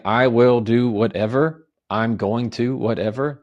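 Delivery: assertive voice. Shown as a demonstration. Coaching a listener on setting a boundary, slow assertive voice. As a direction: state it, don't ask it. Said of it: "that's a very assertive voice".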